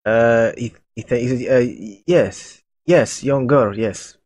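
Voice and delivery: lightly voiced Russian cultist; Russian accent. Cultist confirming he saw the young woman, Russian accent. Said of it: "a Russian, little bit of a Russian accent".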